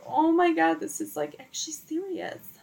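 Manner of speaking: mock-tearful high retelling; bawling. Girlfriend overwhelmed after saying yes, imitated bawling. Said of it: "start bawling my eyes out".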